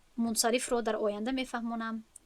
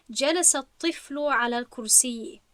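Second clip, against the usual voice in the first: slow example reading; slower than usual. Shown as a demonstration. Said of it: "نظر کنید".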